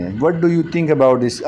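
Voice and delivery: very slow, deliberate example sentence; stretched-out classroom demo of the question; slow model phrase. Shown as a demonstration. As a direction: say it slowly so students can repeat. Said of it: "جب آپ کسی کو موقع دیتے ہیں".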